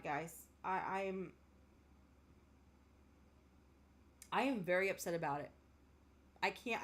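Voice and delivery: holding back crying while admitting how upset she is; choked-up, fading to almost nothing; tearful and upset. Real, not acted. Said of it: "I'm getting emotional and upset and I'm crying".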